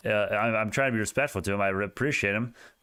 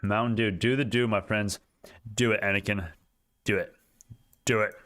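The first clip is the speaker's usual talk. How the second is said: Palpatine voice; 2 semitones lower than usual. Acted. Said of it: "I used to be able to do a Palpatine accent".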